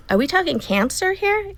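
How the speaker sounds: retold shock, pitch lifted in disbelief; stunned disbelief. Patient asks doctor if it is cancer, stunned. Stunned question on hearing diagnosis.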